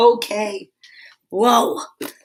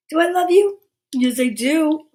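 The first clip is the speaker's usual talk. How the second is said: doting pet talk; 5 semitones higher than usual. Real, not acted. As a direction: coo lovingly to your dog. Cooing affectionately to the dog.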